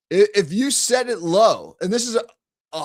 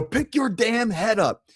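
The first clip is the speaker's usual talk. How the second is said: mock coach yell, a bit higher, slow and pressing; getting all over him; 5 semitones higher than usual. Coach getting all over Steve, mock stern yell. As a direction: lean on every word like a courtside demand. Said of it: "if I get all over him".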